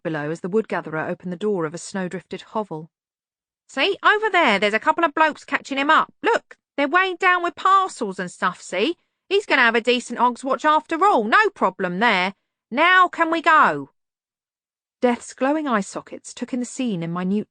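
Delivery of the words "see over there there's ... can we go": put-on high, loud cranky old man; startled old servant. A narrator's reading. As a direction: wake up alarmed and cranky. Albert urging to leave.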